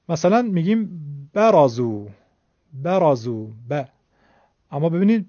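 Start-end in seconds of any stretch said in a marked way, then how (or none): 1.3-3.8 برازو with a short first 'ba', then ب alone; short fatha. Shown as a demonstration. Teacher giving short fatha example, brief 'ba' in برازو. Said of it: "همون فتحه رو دو برابر کردیم".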